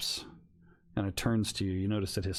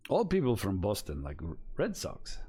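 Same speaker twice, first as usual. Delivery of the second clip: shaky attempt at a Russian accent; lightly put-on Russian accent. Stranger comments on Boston fans, imperfect Russian accent. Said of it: "I'm doing a Russian accent".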